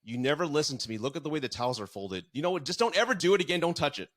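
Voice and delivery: imitating the wife going off on him, building to a near shout; ex-wife scolding him about the towels, mock angry; retold angry outburst. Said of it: "she just went off on me".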